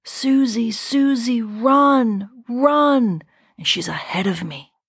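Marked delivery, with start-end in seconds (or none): 0.0-3.2 a sister's urgent mock yell; retold scream. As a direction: call out urgently to Susie. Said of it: "my sister's screaming".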